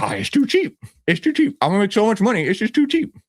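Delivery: high-pitched voice of an imagined buyer; imagined eager buyer. Acted. Imagining what a buyer would think, high-pitched mock thinking. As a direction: voice someone thinking aloud, pitch climbing. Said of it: "then you'd probably think".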